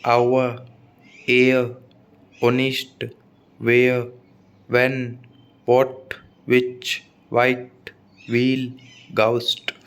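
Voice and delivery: spaced word list, "आवर, ऑनेस्ट, व्हील, घोस्ट" with no H; silent H. Shown as a demonstration. Teacher repeating important examples, "आवर" to "घोस्ट" with silent H. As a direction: pronounce "व्हेन, व्हाट, व्हिच" without any H after the first sound. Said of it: "एच कब कब silent रहता है".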